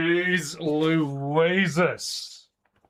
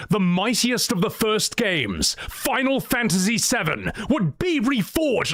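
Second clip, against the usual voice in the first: rising epic narration, first try; epic fantasy narrator; 6 semitones higher than usual. Shown as a demonstration. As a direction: build it up grandly. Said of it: "Let me do that line again".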